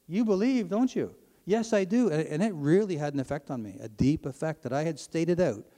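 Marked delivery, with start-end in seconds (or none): 0.1-1.1 higher, raised retold challenge; retold yell. Satanist challenges the prisoner to admit belief, retold yell. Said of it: "He yells back down". 1.4-2.1 high-pitched emphatic reply; retold yell back. Prisoner admits to the Satanist that he believes, retold yell back. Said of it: "I yelled back in front".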